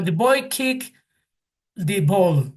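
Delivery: put-on the boy kicked the ball said in English; English sentence read as a model; English example. Shown as a demonstration. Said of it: "en Estados Unidos dicen".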